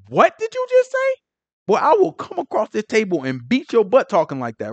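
high indignant "what did you just say"; mock outraged elder ready to fight; ancestor's outrage. Ancestors outraged at a blasphemer, mock indignant. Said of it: "that is like".

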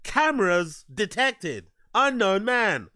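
slow, deliberate announcement of an intruder; mocking, measured security-alert delivery; mock emotionless report. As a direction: imitate an absurdly composed alert, word by word. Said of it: "No screaming, no crying, no nothing".

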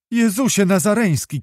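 put-on high-pitched exclamation of a horrified girl; shocked cry. A narrator's reading. Girl learns of the kidnapping plot, high shocked cry. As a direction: cry out high in shock, without great volume. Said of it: "krzyknęła Anusia".

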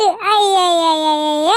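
comic drawn-out lament; a hammed-up comic wail of despair; mock wail. Mock wail over low marks.

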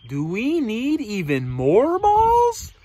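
slow question swooping up; lightly voiced elephant, drawn-out rising query; elephant character. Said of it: "The elephant says".

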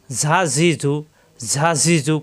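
"ঝা ঝি ঝু" with a whistling, buzzing z; "ঝা ঝি ঝু" as a sibilant z, air escaping. Shown as a demonstration. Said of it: "শীষ দিয়ে উচ্চারণ করতে হবে".

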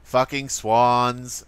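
slow, low-key mock grumble; drawn-out put-on mutter; imitation of friend. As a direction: draw it out slowly, imitating a friend. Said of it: "now you're trying to imitate me".

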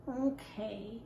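low, soft mumble; a glum little mumble; mumbling. Acted. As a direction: mumble it without looking up. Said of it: "mumbled Ruthie".

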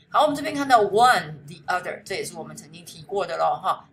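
usual speaking voice

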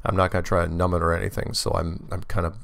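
bitten tongue, drawn-out S's; just bit tongue. Real, not acted. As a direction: talk around a sore tongue tip. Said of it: "my S's are a little, little more drawn out".

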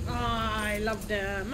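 slow, drawn-out loving sigh; adoring. Real, not acted. Streamer adoring the tanukis, slow and loving. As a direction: melt over something cute.

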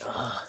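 quiet, sighing "ugh"; effortful groan. Acted. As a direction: let out a soft grunt of exertion. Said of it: "you kind of, like".

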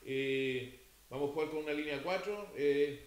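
half-hearted murmur to the players in the corner; listless team talk. Retold or imitated. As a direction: mumble it like a coach who doesn't care. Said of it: "parado así en la esquinita ... dando una charla".

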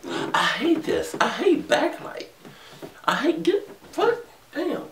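very high-pitched griping; exasperated whine. Real, not acted. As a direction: complain in a squeaky, exasperated voice. Frustrated by the backlight on camera.

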